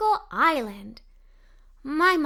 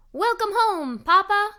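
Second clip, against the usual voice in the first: loud, higher excited cheer; kids shouting welcome; 7 semitones higher, 6 dB louder than usual. A narrator's reading. Kids run to welcome their papa home, loud cheer. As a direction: greet the returning grandpa with a shout.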